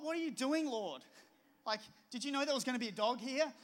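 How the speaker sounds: a mock-frustrated plea to the Lord; exasperated complaint. Complaining to God about the dog.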